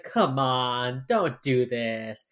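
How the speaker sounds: drawn-out, exasperated mom plea; annoyed older mother. Retold or imitated. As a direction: imitate a fed-up mother, dragging the words. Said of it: "this annoyed older woman".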